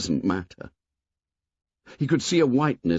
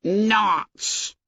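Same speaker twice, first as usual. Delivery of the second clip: shocked retort; 11 semitones higher than usual. A narrator's reading. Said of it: "shocked out of decorum".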